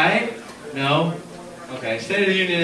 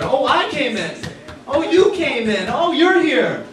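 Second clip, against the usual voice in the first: high, gushing fake politeness; hammed-up congress greeting; mock greeting; 7 semitones higher, 4 dB louder than usual. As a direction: mimic politicians fawning over each other. Mocking congress members greeting.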